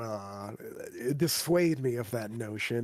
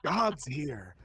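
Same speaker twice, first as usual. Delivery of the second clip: sneering panto villain; 6 semitones higher, much slower than usual. Acted. Tempting players to stay in hell.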